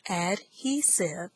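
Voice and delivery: "adhesive" slowly parted as ad-he-sive; syllable by syllable. Shown as a demonstration. Teacher introduces the final word, "adhesive" in syllables.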